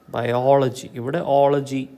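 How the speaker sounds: ബയോളജി, then ഓളജി picked out with weight on OL; stress on OL. Shown as a demonstration. Teacher locating the stress, weight on ഓളജി. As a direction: isolate and stress the ഓളജി part. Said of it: "അതിന് stress കൊടുക്കുന്നത്".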